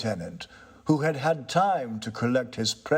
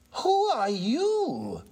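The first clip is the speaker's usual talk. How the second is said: slow, drawn-out high question, voice gone thin; frightened question; much slower than usual. A narrator's reading. New tenant startled by a ghostly figure, asks frightened. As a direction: ask it frozen with fright. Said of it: "turning very pale".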